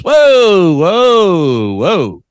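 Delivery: loud high whoa, falling away; startled, stopping him short; mock startled barista. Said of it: "she goes".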